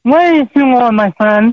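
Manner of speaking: muffled behind a mask; through a face mask. Real, not acted. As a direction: speak through a cloth mask. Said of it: "I'm wearing a mask right now".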